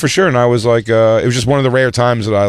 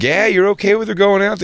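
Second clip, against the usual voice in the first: dad voice; 10 semitones higher than usual. Retold or imitated. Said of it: "he's like".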